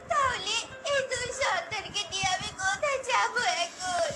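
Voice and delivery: keen over the ruin; a mother wailing after the fire; wailing lament. Acted. Mother wails over loss.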